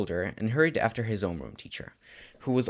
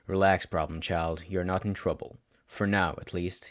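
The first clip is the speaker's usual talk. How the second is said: a lightly lower, dry teacher voice; tired teacher; 3 semitones lower than usual. Acted. Teacher calming his nervous student, low and dry. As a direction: settle the kid down, low and unhurried.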